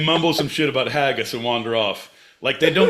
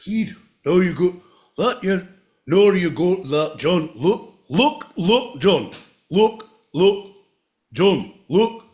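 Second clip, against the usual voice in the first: put-on Scottish accent. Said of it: "Scottish, my boy Pete".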